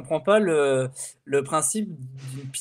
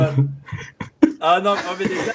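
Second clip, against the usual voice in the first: laughing; 4 dB louder than usual. Real, not acted. Laughing fit, camera trouble.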